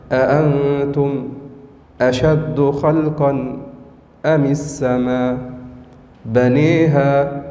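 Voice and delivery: slow, drawn-out recitation; Quran recitation. Shown as a demonstration. Teacher reciting the verse as Hamza reads it, slow chant. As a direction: recite it slowly, stretching the vowels. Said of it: "يقرأ هكذا".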